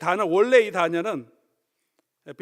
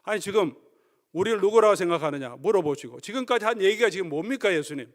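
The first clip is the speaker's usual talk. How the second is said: shocked protest; 2 semitones higher than usual. Acted. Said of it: "베드로가 깜짝 놀랐죠".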